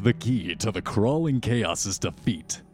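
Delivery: dramatic scene-setting narration; game master's recap. Acted. Game master recaps Serena and Doctor Wu's translation, storytelling narration. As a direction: narrate the story so far with lilting emphasis.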